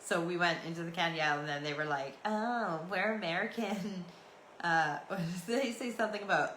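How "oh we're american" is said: lightly mocking, slightly raised voice; mocking mimicry. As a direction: tease as if copying someone's accent. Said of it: "they started mimicking us and making fun of us".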